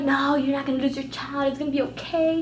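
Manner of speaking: put-on calm down a worried girl, quietly; acted-out gentle comforting; reassuring mom. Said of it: "And she's like".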